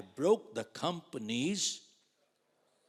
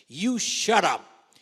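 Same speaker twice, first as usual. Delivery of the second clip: "You shut up" barked slow and loud, voice higher and rough; harsh "shut up"; 8 semitones higher, 15 dB louder, much slower than usual. Retold or imitated. Manager silencing the agent in his office, slow loud harsh command. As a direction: bark "You shut up" slowly with force. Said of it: "and he said".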